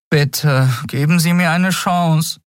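put-on high, begging boy's voice; boy Miko begging the captain, pitched high; pleading boy. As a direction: plead desperately for a chance. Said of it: "flehte der Junge".

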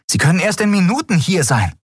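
high, crisp report; female comms officer. Acted. Comms officer reporting to the captain, high and crisp. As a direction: report the bad news.

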